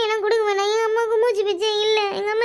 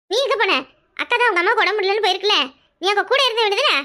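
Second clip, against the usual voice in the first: scolding; 3 dB louder, faster than usual. Acted. Scolding the wailing girl.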